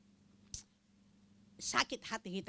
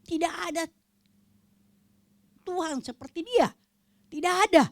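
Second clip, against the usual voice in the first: higher and louder, proclaiming; fervent shout of faith; emphatic proclamation; 9 semitones higher, 11 dB louder than usual. Acted. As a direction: declare it with full force. Emphatic proclamation about God.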